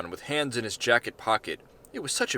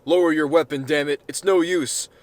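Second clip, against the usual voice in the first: commanding shout; 4 semitones higher, 6 dB louder than usual. Acted. President orders agent to lower gun.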